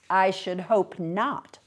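slow, curt disapproval; a touch of starchy sharpness, drawn out; sharp reply. Acted. Mother rebuffs the little man, mildly sharp. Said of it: "embarrassed by my mother's sharpness".

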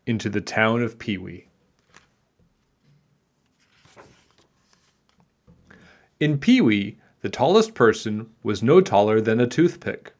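put-on measured read-aloud for children; story narration. A narrator's reading. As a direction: tell it like a picture-book tale.

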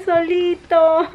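slow drawn-out mock whimper; mock pity. Wife pretends to pity husband left alone, slow mock whimper. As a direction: stretch it out in pretend sorrow.

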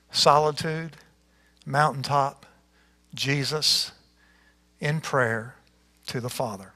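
measured, expressive Bible reading aloud; scripture reading. Acted. Pastor reading the Galilee passage to church, expressive. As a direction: read the passage like a storyteller.

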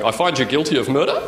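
verdict ending on a rising question tune; Australian judge with upward inflection; uptalk judge. Retold or imitated. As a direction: judge lifting "murder" up like he's unsure. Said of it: "High Court judges ... just going".

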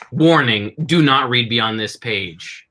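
slow, grave warning read; ominous warning. Acted. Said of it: "which opens with".

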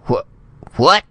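high, loud startled cry; shocked. Acted. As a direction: blurt it in disbelief. Ambassador startled by rebuke.

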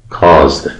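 caused ending in a plain d sound, no extra syllable. Shown as a demonstration. Teacher modelling caused for students.

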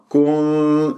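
كن- with the hum coloured by u; wrong rounded ghunnah. Shown as a demonstration. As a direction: hum the n of كن- through rounded lips, as a mistake. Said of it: "خطأ".

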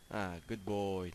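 slow gentle praise for a pet. Real, not acted. Pig obeys.

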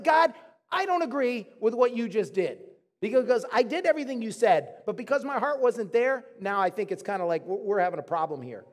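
acted complaint, loud at first then easing; arguing. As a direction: argue firmly with God, settling towards the end. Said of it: "he's having an argument with God".

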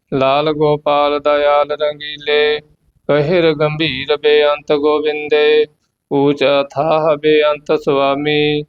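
measured, devout path recitation; scripture recitation. Acted. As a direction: recite the hymn steadily and reverently. (ਪਾਠ ਦਾ ਉਚਾਰਨ)

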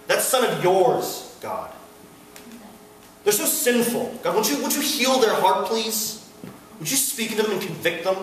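put-on sanctimonious prayer; mock pious prayer. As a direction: plead with God as the better Christian. Mock pious prayer about sinful others.

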